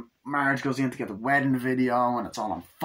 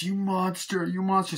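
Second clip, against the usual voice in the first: high-pitched mock accusing voice; Lisa; 9 semitones higher than usual. Daughter confronts her father, high accusing voice. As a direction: accuse in a high, put-on character voice.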